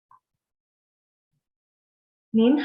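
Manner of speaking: 您好 drawn out very slowly, 您 rising, 好 dipping; slow polite greeting. Shown as a demonstration. Teacher to class: slow model greeting. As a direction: present 您好 slowly as the polite hello. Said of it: "this is how we say hello in polite way".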